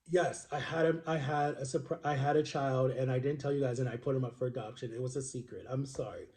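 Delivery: low, soft, sinking into near-mumble; subdued retold confession. Birth mother admitting the secret adoption, subdued and fading.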